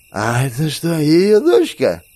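put-on high, slow drunk question; drunk slurring. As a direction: slur it, squinting drunk. Drunk woman, same voice.

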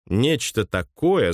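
такое said slowly with a firm falling end; slow concluding tone. Acted. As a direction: weigh each word, close it down. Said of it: "заключил Росс". (медленно, с твёрдым понижением на «такое»)

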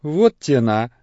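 surprised. A narrator's reading. Father Christopher to the boy lying down, surprised. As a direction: react with a burst of surprise. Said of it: "удивился отец Христофор".

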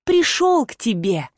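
lightly parodying the rival's nasty tone; a hint of a sneering copycat voice; mocking imitation. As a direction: mimic her voice to ridicule her. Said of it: "попыталась передразнить отвратительный тон и голос Ангель".

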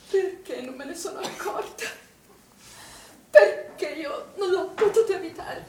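tearful, breaking on the question of why; breaking into tears. Acted. Grieving mother blaming herself to a friend, in tears. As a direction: voice cracking into a sob as guilt overwhelms her.

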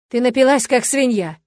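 put-on loud, angry growl at a drunk wife; рычащий крик; growled insult. A narrator's reading. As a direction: snarl it with disgust. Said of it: "рыкнул пожарский отец".

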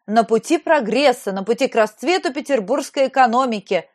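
lightly voiced pompous governor; ranting speech. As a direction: hold forth like a pompous official. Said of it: "распиналась она".

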